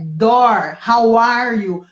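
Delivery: door and how are you with a hard curled American R; English R demo. Shown as a demonstration. Teacher demonstrating the English R, a curled R. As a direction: roll the R in door like a country accent. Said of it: "o R do inglês é um R caipira".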